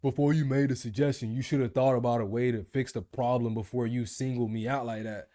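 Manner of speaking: defensive boss. Retold or imitated. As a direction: play the offended manager snapping back. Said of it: "Buddy literally looked at me like".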